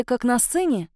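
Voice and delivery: ordinary delivery, nothing marked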